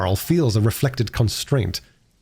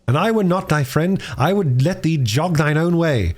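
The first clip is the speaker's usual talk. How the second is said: higher, slower, teasing a touchy friend; half-joking warning to his friend; lightly voiced teasing friend; 6 semitones higher than usual. A narrator's reading. Gascoigne teasing Miles.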